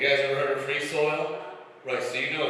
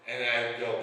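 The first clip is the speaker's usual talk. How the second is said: ordinary talk, nothing marked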